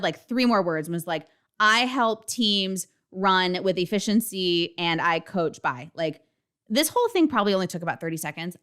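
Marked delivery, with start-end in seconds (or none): 1.6-5.9 stumbling intro. Retold or imitated. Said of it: "I basically said".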